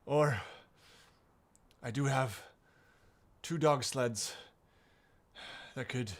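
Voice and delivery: lightly voiced older woman, measured with long pauses; older woman stranger. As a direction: offer it haltingly, lightly in character.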